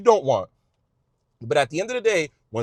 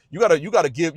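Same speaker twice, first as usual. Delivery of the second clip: usual speaking voice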